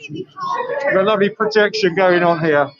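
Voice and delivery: muffled behind a face mask; talking through a mask. Real, not acted. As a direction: speak through a mask, words dulled. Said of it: "I'm talking through a mask".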